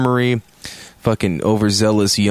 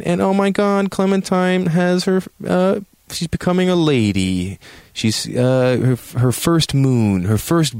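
high-pitched, hammed-up awe; oh-my-God sing-song delight; mock gushing; 9 semitones higher than usual. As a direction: gush in a much higher voice. Mock gushing over girl growing up.

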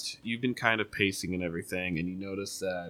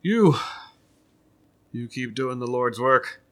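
higher, louder grateful mother; motherly NPC; 4 semitones higher, 8 dB louder than usual. Acted. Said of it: "And she goes".

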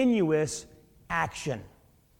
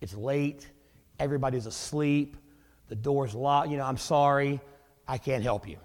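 softer, apologetic polite decline; polite refusal; 4 semitones lower, 4 dB quieter than usual. Retold or imitated. Neighbor in bed politely refuses the friend at the door, softer and apologetic. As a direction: let him down gently and quietly. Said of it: "very politely says".

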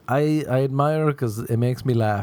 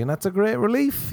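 mock relief; 10 semitones higher than usual. Mock relieved sigh line.

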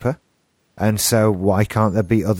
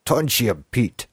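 put-on American actor's take on a Russian accent; mock Russian accent. Showing how the names sounded on screen, imitated Russian accent. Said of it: "American actor playing a Russian guy's voice".

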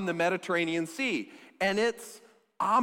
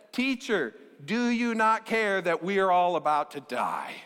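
panicked disciples. Acted. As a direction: cry out as if the boat is sinking. Disciples wake Jesus in storm.

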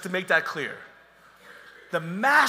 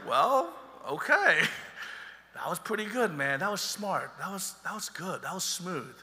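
impressed master; 4 dB quieter than usual. Acted. Master voiced, grudgingly impressed.

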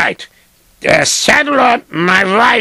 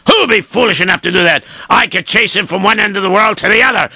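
indignant rich man; faster than usual. Acted. Rich man rants at servant.

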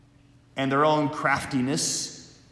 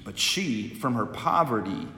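solemn liturgical proclamation; Gospel reading. Acted.

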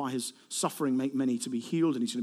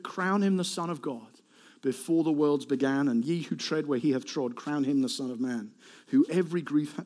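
hymn recitation; 3 semitones lower than usual. Acted. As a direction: recite it reverently, settling gradually to rest.

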